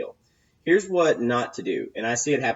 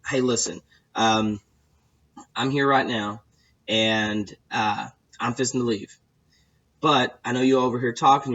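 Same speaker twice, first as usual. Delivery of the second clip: private closing pitch. Shown as a demonstration. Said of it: "and I lean up and say".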